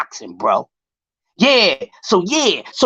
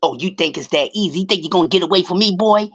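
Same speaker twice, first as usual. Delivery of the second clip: imitating Floyd; 3 semitones higher than usual. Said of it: "So Floyd come out and say".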